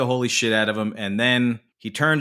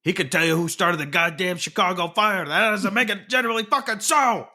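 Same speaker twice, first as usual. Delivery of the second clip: rising into a higher, mock-exasperated voice by the end; half-acted gangster rant, going higher; quoting a tough guy; 5 semitones higher, faster than usual. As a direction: play the hothead laying down the law, climbing in pitch. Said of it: "And he's like".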